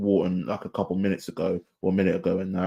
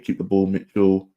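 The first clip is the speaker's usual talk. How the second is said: ordinary talk, nothing marked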